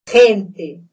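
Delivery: "Gente" starting with a strong throat friction; throaty Spanish G. Shown as a demonstration. Teacher repeats the example, throaty G in "Gente". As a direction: rasp the first sound of "Gente", no trill. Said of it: "é som de R".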